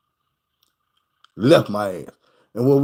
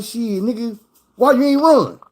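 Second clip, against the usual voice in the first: imitating the killer; 9 semitones higher than usual.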